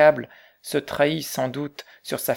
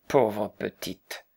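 slow, lower voice full of pity; deep pity; 4 semitones lower, much slower than usual. A narrator's reading. Old Quaker repeating his pity to Sylvia, slow and tender. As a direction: linger on each word with deep compassion. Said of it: "l'expression d'une pitié profonde".

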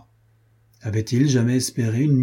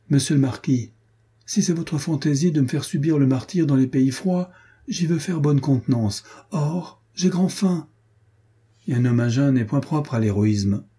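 higher, plaintive grumbling; squire's complaint; 4 semitones higher than usual. Acted. The hungry squire complains to his master, plaintively. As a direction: beg for food with mock dignity.

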